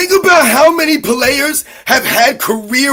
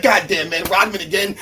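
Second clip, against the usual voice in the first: low, soft grumble, much lower and quieter; Michael Jordan grumbling; 7 semitones lower, 7 dB quieter than usual. Retold or imitated. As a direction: mutter it under your breath, a fed-up Jordan imitation. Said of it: "He's like".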